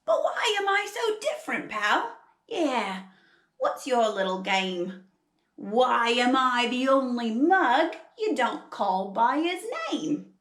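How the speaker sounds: aggrieved koala with a put-on Aussie accent; hammed-up Australian complaint. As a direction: demand an answer in an Australian accent. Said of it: "trying really hard to do an Australian accent".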